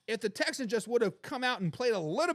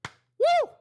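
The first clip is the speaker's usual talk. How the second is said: very high, loud whooping "Woo!"; loud celebratory whoop; excited woo; 8 dB louder than usual. Real, not acted. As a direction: let out a hype whoop. Celebrating the Lions' wins.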